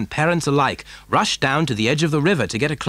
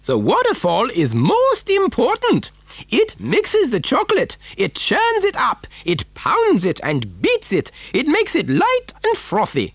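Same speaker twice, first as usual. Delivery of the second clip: high, swooping voice with Germanic touch; excitable eccentric factory owner; 14 semitones higher than usual. Acted. Factory owner showing children his waterfall, excitable and high-pitched. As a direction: show it off with zest, pitch leaping high.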